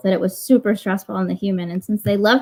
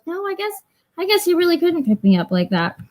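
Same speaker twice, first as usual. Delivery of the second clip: grudging cat; 8 semitones higher than usual. Retold or imitated. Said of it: "she goes".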